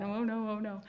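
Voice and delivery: soft, fretful mock worry; mock panic. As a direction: mutter it like a worrier spiraling. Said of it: "I angst out really bad".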